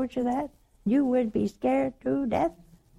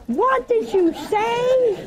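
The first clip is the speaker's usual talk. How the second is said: puzzled northerner; 12 semitones higher, much slower than usual. Pretend.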